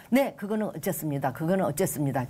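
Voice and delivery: retold quick-fire replies; hurried answers. Answering the counselor before time runs out, hurried answers. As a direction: answer promptly, one reply straight after another. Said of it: "거기에 막 빠른 대답을 했어요".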